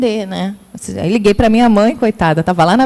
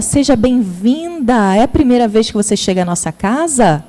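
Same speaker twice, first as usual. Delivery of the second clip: welcoming greeting. Shown as a demonstration. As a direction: greet her kindly, taking your time. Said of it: "Diga a ela".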